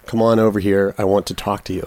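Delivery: low attempt at a Brooklyn accent; Ryan Gosling's Brooklyn accent. Host tries the line co-host gave him, light Brooklyn accent. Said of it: "It's a Brooklyn accent. It's Ryan Gosling's Brooklyn accent".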